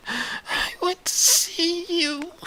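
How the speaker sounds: slow, crying plea; tearful. Acted. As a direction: choke it out through tears. Retelling dead son's plea.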